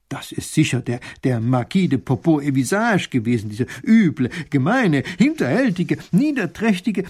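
the little duke working himself into a rage; angry. A narrator's reading. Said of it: "wird so wütend".

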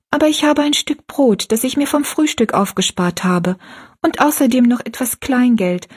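a hint of a gentle young girl; young girl Rosalie. Rosalie refuses the food.

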